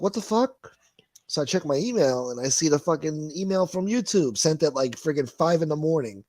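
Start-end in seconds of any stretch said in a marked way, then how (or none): 0.0-0.8 high, rising shocked "What the fuck?"; shocked disbelief. Retold or imitated. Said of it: "I'm like".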